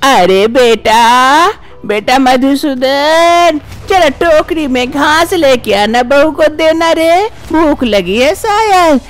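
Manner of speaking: put-on a nagging elderly amma, worried; fussy old mother-in-law. Mother-in-law answers the bahu's calls, fussing.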